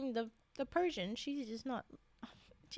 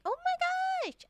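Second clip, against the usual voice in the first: exasperated yell; 6 dB louder, slower than usual. Real, not acted. Outburst of disbelief at character.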